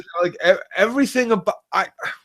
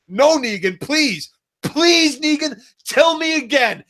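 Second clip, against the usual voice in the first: angry rant. Real, not acted. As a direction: tear into the show with mocking fury. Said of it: "That was a proper rant".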